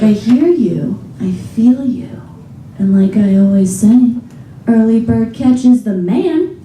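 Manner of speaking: slow, soothing radio DJ; radio host voice. Retold or imitated. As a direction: croon it like a late-night DJ.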